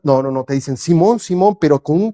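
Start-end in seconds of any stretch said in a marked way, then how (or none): 0.8-1.6 mildly tender call of the name; affectionate, gently getting his attention; loving. Shown as a demonstration. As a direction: say the name with love in the voice. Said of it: "con un amor en su voz".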